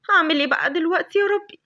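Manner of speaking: frightened whisper rising high at the end; scared whisper. Acted. Lavender alone in the dark desert, frightened whisper. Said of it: "لافندر كانت خايفة جدًا".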